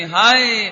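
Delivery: hammed-up lament; mock wail. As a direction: cry out hai like a mourner. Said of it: "जोर जोर से रोने लगी".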